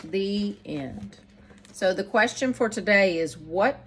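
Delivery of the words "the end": put-on lively rhyming read-aloud for children; bouncy, sing-song story reading; storybook narration. A narrator's reading. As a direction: read it like bedtime verse to kids. Reads picture book aloud.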